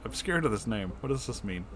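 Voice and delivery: plain reading voice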